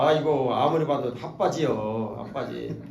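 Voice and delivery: playful mockery; mock teasing. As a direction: rib him playfully. Retold teasing of another man.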